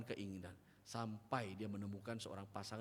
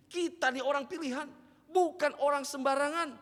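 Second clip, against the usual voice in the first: higher and much louder, proclaimed with full force; loud proclamation; 11 dB louder than usual. Shown as a demonstration. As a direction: shout it out to the whole room. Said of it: "Bilang sama teman-teman sa-, ka-, samping kirinya". (seruan lantang penuh semangat)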